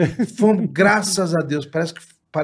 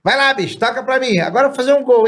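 put-on high, excited kid calling for the ball; lightly voiced eager kid; 8 semitones higher than usual. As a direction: shout for the ball like a boy.

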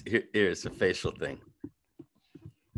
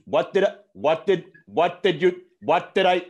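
impression attempt; 7 semitones higher, 6 dB louder than usual.

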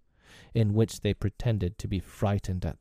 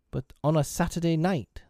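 higher-pitched, gently suggestive; insinuating; 7 semitones higher than usual. A narrator's reading. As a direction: drop a sly hint. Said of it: "slightly insinuated".

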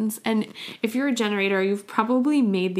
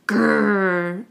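a slow, louder growled grr; angry grr; 4 dB louder than usual. Shown as a demonstration. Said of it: "I'm angry".

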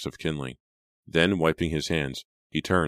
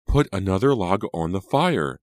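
higher, louder impatient command; impatient order; 4 semitones higher, 5 dB louder than usual. A narrator's reading. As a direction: demand it impatiently. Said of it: "Angelica ordered impatiently".

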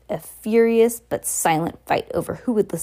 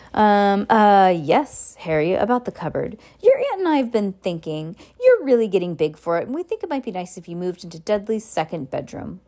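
forced smile. Acted. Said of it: "forced his face to a smile".

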